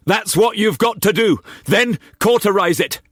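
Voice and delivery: high-pitched determined voice; urgent self-talk. A narrator's reading. Cullum steeling himself beside Glessing, urgent. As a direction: push through the fear.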